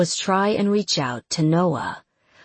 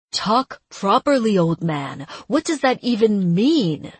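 angry demand; 3 semitones higher, 4 dB louder than usual. Acted. Frustrated demand to old man.

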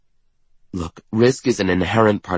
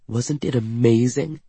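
raving; 4 semitones higher than usual. A narrator's reading. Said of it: "Katerina raves".

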